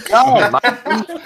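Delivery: put-on a laughing, botched British accent that drifts toward Australian; bad British accent. On a dare from the co-hosts, a bad British accent. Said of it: "Can you do a British accent?".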